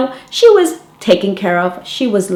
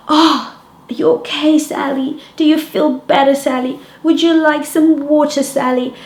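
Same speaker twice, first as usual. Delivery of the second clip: doting grown-up; 6 semitones higher than usual. Retold or imitated. Adult pampering Sally.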